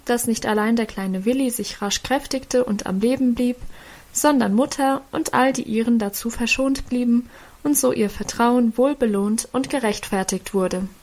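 ordinary delivery, nothing marked

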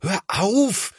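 high, alarmed stop; horrified older brother calling out. A narrator's reading. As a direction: cry out to stop him. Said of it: "ruft Thomas entsetzt".

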